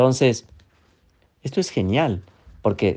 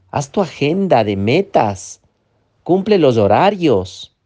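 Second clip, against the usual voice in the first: a touch louder, bossy critic; pushy inner critic; 3 semitones higher, 3 dB louder than usual. Acted. The inner critic orders the seller to get up, mildly bossy. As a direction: push them like a demanding inner voice. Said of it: "la otra voz".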